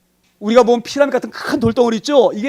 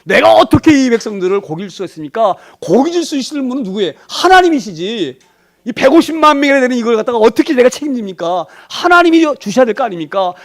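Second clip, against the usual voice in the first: raised, higher-pitched challenge to God; defiant protest; 3 semitones higher, 3 dB louder than usual. Acted. Moses confronting God over feeding the people, defiant. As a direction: argue back forcefully as an overburdened Moses. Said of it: "하나님께 막 대드는 거예요".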